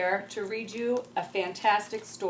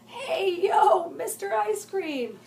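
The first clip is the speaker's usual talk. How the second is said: cracking voice; 11 semitones higher, 5 dB louder, slower than usual. Acted. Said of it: "her voice did not sound quite the same".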